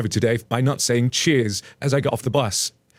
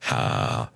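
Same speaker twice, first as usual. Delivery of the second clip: pointed low huff; 5 dB quieter than usual. Retold or imitated. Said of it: "so I just stand there and go".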